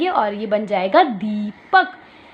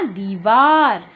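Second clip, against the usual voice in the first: slow teacher model; 3 semitones lower, much slower than usual. Shown as a demonstration. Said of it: "क्या बना?".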